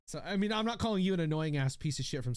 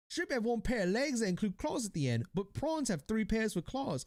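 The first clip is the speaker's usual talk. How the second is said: mock Australian reading; 6 semitones higher than usual. Streamer reads the shrimp facts aloud in a put-on Australian accent. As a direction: read it out like an Aussie. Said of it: "I'm gonna read this like an Australian".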